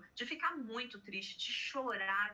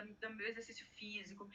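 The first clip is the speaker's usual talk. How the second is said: softly whispered aside; 8 dB quieter than usual. Real, not acted. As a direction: drop to a breathy whisper mid-list. Aside within list of self-care.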